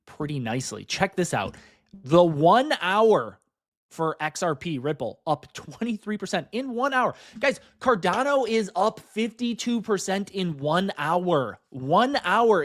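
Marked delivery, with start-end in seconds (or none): 2.0-12.6 real excitement, punching the key figures; thrilled market update, drawing out the big news; excited. Real, not acted. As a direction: hype up the breaking numbers. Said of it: "hear the excitement in my voice".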